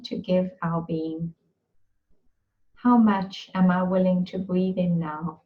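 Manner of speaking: measured meditation voice with long, restful pauses; guided breathing meditation. Real, not acted. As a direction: guide them gently through each breath, phrase by phrase.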